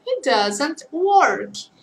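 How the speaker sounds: each word of "He doesn't work." drawn out; very slow model sentence. Shown as a demonstration. Teacher modelling the negative very slowly for students. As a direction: spell out the negative slowly for learners.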